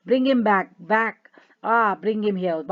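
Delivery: acted hysterical begging; wailing plea. Natalia wails at her father to bring the suitor back.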